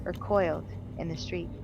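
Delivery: spooky voice. A narrator's reading. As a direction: narrate like a creepy campfire tale. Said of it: "let me go back into spooky voice".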